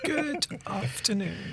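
slow, soft posh greeting. Acted. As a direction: greet like a refined toff, slowly. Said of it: "Why did you just put on a posh voice then?".

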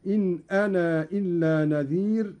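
"أنا" with a long aa carried into "إلا"; separated madd. Shown as a demonstration. Teacher demonstrates Qalun lengthening "أنا". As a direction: stretch the final aa of "أنا". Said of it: "مدا منفصلا هكذا".

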